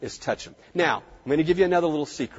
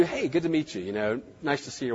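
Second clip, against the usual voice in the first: relaxed greeting; 2 semitones lower, 7 dB quieter than usual. Shown as a demonstration. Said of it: "what I do".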